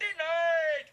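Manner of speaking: loud, high judge's shout; booming courtroom rejection; emphatic ruling. Acted. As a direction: call out the ruling with full force. Judge rejects the prosecution's motion.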